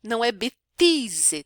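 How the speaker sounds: "bêtise" with an off vowel; slightly wrong French "bêtise"; wrong version; another wrong bêtise. Shown as a demonstration. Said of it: "também não é".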